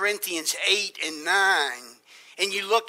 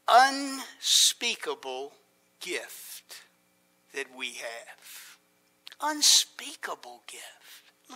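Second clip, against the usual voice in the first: hushed awe; 7 semitones lower, 3 dB quieter, slower than usual. Real, not acted. Preacher hushes on unspeakable gift.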